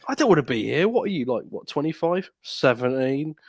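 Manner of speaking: hammed-up teenager taking a call; a teen cutting the meeting for a phone call; bored teenager on phone. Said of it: "one of the kids, like, mobiles goes off".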